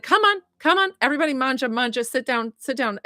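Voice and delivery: imitating an eager Italian mom calling guests in; big energy. Medium voices mom calling everyone to eat, big energy. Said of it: "came in with the biggest energy".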